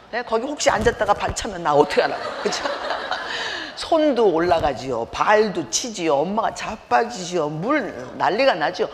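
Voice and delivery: laughing at the memory of the chaos; half-laughing, loud. Real, not acted.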